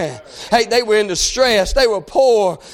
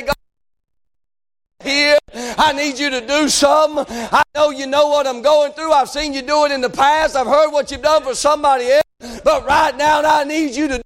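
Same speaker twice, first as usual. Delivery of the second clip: insistent, slightly raised pleading; fervent prayer; 4 semitones higher than usual. Acted. Preacher modelling an honest prayer before God, pleading fervently. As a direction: press the plea in a preacher's cadence.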